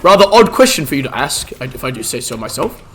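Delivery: hint of a bumbling old wizard; Gandalf role-play. Streamer playing Gandalf for chat, lightly voiced old wizard.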